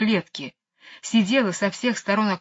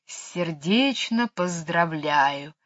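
tender hiss; much slower than usual. Acted. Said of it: "нежно прошипела она". (нежно шипящая кобра)

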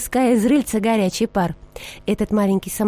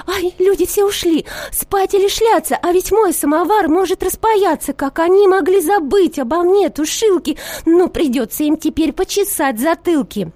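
higher, louder alarmed lid voice; frightened ringing; 7 semitones higher, 3 dB louder than usual. A narrator's reading. Snuffer lid panics that people forgot the samovar. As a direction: ring out in alarm, high and loud. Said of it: "испугалась и звенит".

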